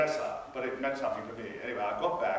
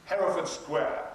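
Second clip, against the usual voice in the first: imperious; 3 semitones higher, slower than usual. Retold or imitated. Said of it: "as imperiously as I could".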